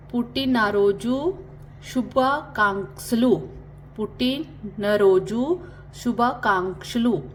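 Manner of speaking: पुट्टिनरोजु शुभाकांक्षलु split up, then said slowly; careful slow drill. Shown as a demonstration. Teacher drills Telugu birthday wish, slowly. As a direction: break it up, then join it slowly. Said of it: "happy birthday को कैसे बोलते हैं".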